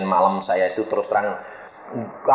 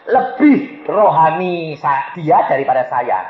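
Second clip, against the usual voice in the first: lightly voiced husband, high and light; high-pitched reported answer; husband's reply; 7 semitones higher, slower than usual. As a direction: play the husband airily praising his wife. Acting husband praising wife.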